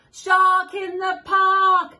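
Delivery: high, slow shout of the warning; sing-song shouted alarm, slow and high. Acted. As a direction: call it out big for the child. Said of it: "He shouts".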